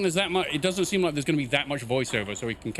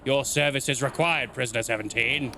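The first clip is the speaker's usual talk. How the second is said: hoarse raspy woman; 4 semitones lower than usual. Acted. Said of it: "hoarse and raspy".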